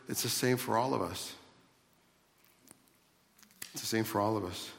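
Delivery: tender reassurance. Real, not acted. Preacher to dear brothers, it's for all of us, tender reassurance. Gentle address to brothers, repeated.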